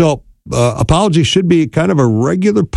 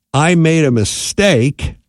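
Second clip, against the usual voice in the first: sincere admission; 4 semitones higher, slower than usual. Shown as a demonstration. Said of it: "is a much better thing".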